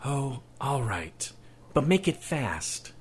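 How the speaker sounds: mother giving in to her son, exasperated. Acted. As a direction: sigh it out, tired of arguing. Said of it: "exasperated sigh".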